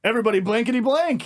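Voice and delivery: fast, bright announcer-style fill-in for a forgotten name; mock hype intro. Comic hosting a show, forgetting the booker's name, fast mock hype. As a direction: rush it out like a host covering a blank. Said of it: "I had to be like".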